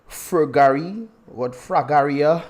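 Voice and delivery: slow, broad Dominican accent on Fragaria; Dominican-accented name, said slowly; heavy Dominican accent. Real, not acted. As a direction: lean into the Dominican accent, drawn out. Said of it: "My Dominican accent heavy on that".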